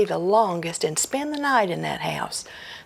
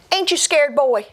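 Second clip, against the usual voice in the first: louder, rising ghostly taunt; 7 semitones higher, 4 dB louder than usual. Acted. Ghost taunts Jack by the fire, loud and rising. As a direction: taunt the boy from the dark. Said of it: "the ghost looked square at Jack and said".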